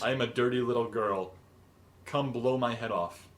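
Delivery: plain, unchanged man's voice playing a girl. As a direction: lightly imitate a man making no effort to sound female. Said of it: "talking in a man voice".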